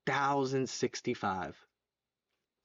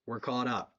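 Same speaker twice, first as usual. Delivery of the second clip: ordinary talk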